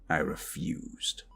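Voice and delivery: slow, barely voiced whisper. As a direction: confide it softly at the bedside. Whispering to recovering partner.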